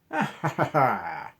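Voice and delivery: high, loud mock leprechaun laugh. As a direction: ham up a cheeky leprechaun laugh. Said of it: "That's not how they laugh".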